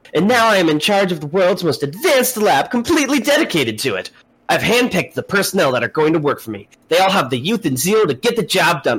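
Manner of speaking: read in an anime character voice. Reading a text aloud in an anime character voice. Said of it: "I'm reading this like an anime character".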